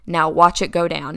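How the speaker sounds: lightly imitated Kentucky accent; dad's Southern Kentucky lilt, understated. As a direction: say it like a Kentucky dad. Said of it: "with his little Southern Kentucky accent".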